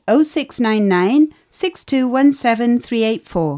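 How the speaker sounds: quick run through the digits; rattled off fast. Acted. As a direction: reel the number off briskly. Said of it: "Not so fast".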